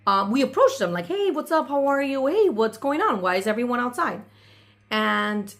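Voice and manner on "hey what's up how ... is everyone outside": higher, eager hellos to the hosts; friendly greeting. Retold or imitated. Arriving at the party, she greets the brothers: higher eager hellos. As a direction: say hey like you're glad to see them, pitch up.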